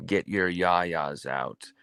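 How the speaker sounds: put-on a faint try at a British accent, a singer's quote; lightly put-on British accent, barely there; half-hearted British accent; attempted British accent. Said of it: "I can't really do a British accent".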